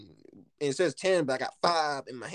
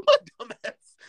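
laughing at himself; 8 semitones higher, 10 dB louder than usual. Real, not acted. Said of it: "That's how stupid I am".

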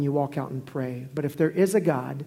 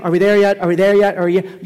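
backseat whining; 3 semitones higher, 9 dB louder than usual. Retold or imitated. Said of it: "the kid that just complained".

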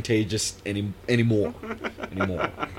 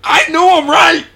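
mock triumph; 11 dB louder than usual. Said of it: "mock triumphant outburst".

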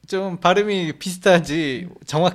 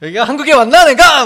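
loud, higher startled self-question; mock astonishment; 6 semitones higher, 10 dB louder than usual. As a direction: exclaim it as if suddenly doubting where you are. Acting out own startled thought. (깜짝 놀란 듯 크게)

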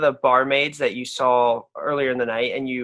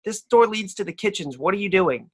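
a higher barmaid voice telling off the intruder; scolding barmaid; 5 semitones higher than usual. Acted. Barmaid to the player in the kitchen, higher scolding. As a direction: rise up and scold him.

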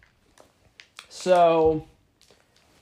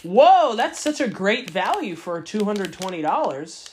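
sarcastic. Pretend. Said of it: "unless you took it like".

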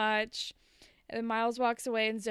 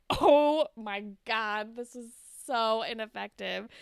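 exasperated disbelief; 4 dB louder than usual. Retold or imitated. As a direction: let the frustration drag out. Reacting to a useless apology.

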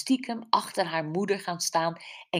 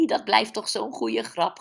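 higher, amused chuckling voice; tickled by your own joke; 4 semitones higher than usual. Acted. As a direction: say it on the tail of a giggle. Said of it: "grinnikte ze".

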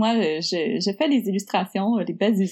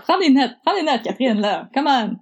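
teasing; 4 semitones higher than usual. Real, not acted. Teasing co-host to take notes.

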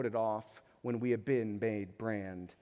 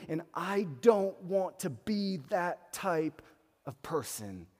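raised, slow, exasperated voice of a hot-tempered man; frustrated confession; 4 semitones higher than usual. Pretend. A congregant admitting his short temper, exasperated and raised. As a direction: voice the listener fed up with his own temper.

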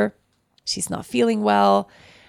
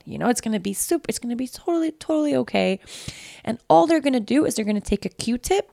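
put-on high, gentle sing-song to a child; calm her like it's all fine; upbeat mother talking a scared child into a test; reassuring mom; 5 semitones higher than usual. Mom soothing sick toddler.

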